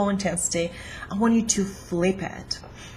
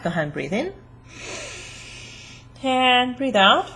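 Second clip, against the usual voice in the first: guided breathing cue; 6 semitones higher than usual. Shown as a demonstration. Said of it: "just take a deep breath".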